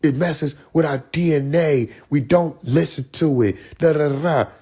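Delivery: a hint of a lady lecturing about rap; mild mock of her earnest tone; imitating Tyba Jet. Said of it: "She was like".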